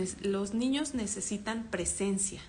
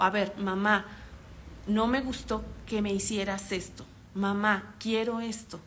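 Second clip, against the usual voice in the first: calm modelled request. Shown as a demonstration. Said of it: "Modélale el cómo sí".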